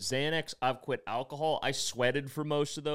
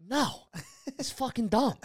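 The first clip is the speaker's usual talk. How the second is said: sponsor scoffing; 11 semitones higher than usual. Retold or imitated. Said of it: "He's like".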